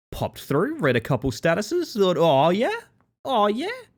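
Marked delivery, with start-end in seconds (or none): 2.1-3.6 exaggerated, drawn-out, very strong Australian accent. Retelling his reaction while reading someone's posts online, exaggerated Australian accent. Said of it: "In the most Australian tone possible".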